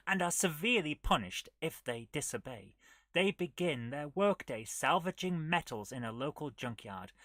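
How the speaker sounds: lightly dramatic adventure-story narration; measured game narrator. Acted. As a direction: read out the sci-fi tale with firm, projected emphasis. Reads the game's story aloud.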